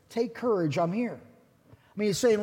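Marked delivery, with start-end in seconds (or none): 0.1-1.2 softer, calm and comforting; Jesus calming his disciples, soft and reassuring; gentle reassurance. Retold or imitated. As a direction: soothe frightened men in a storm. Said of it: "And he said".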